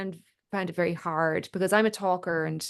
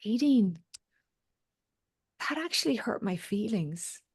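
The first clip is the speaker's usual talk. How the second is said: somewhat kind; 4 dB quieter than usual. Retold or imitated. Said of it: "the way she said it, somewhat kind".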